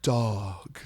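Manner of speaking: very slow, high, drawn-out dramatic recitation; mock a contestant stretching each word; imitating a dramatic girl. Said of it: "this one girl that would go".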